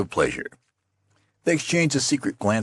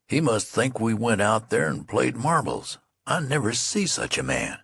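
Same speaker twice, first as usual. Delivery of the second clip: lightly voiced soldier, a bit higher, sulking; aggrieved young soldier; 6 semitones higher than usual. Friend complains to the youth: lightly voiced aggrieved soldier. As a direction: grumble like a wronged private. Friend grumbles about general.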